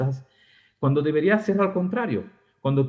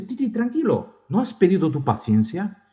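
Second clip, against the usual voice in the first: reassuring apostle; 5 semitones higher than usual. Retold or imitated. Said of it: "Santiago dice".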